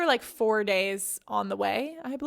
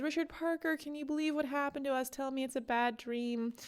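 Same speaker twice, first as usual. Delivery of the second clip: tragic poetic; 3 semitones higher, 8 dB quieter than usual. A narrator's reading. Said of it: "lapsing into tragic, poetic prose".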